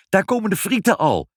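put-on high, excited child's cheer. A narrator's reading. Ibbeltje sees the fries coming out, cheering. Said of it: "juichte Ibbeltje".

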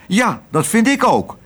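crowing shout. A narrator's reading. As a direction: butt in with a high, excited cry. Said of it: "schreeuwde Kwark".

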